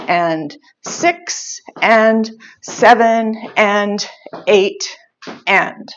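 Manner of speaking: measured, spaced-out dance count. Shown as a demonstration. Dance teacher counting first eight counts for students, slowly. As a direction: count the steps slowly, pausing between beats. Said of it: "I'm gonna go a little bit faster".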